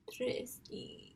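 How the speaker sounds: Trestique said softly in a French accent. Shown as a demonstration. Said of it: "I need to say it in a French accent".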